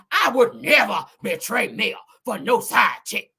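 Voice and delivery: slow, emphatic mock protest; rival's indignant voice. Acting the rival denying any betrayal, indignant. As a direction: spell out the denial word by word. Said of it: "Let me say it in her voice".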